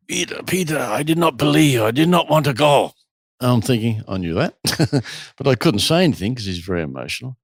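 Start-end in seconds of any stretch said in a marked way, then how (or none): 0.1-2.9 put-on heavy, deliberately terrible German accent; bad German accent. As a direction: imitate a German man's halting, emotional English. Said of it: "in my worst German accent".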